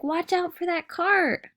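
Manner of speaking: high, urgent warning shout; mom yelling. Acted. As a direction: say it fast so he hears. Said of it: "So she's like".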